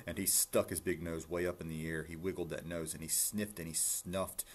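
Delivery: lilting rhymed read-aloud; story narration. A narrator's reading. Reading a rhyming rabbit story to listeners, storytelling. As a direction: read it out clearly in bouncy verse.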